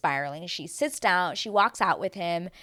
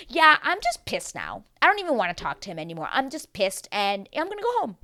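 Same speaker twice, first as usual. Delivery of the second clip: mildly miffed imitation, pitch jumping up; mock huffy complaint; retold annoyance; 4 semitones higher than usual. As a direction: act out someone pissed off, lightly. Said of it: "so annoyed and so pissed off".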